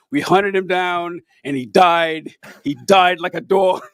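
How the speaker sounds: slow, weighty mock-Trump gravitas. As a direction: lean into each word like a solemn Trump. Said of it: "he says it with such, like, gravitas".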